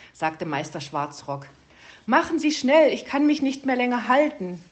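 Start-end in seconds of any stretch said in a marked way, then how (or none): 2.1-4.6 high, strained whimper of a small bird; a hint of a whining little bird. A narrator's reading. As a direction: beg him to hurry, legs giving out. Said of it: "jammerte Zwitschi".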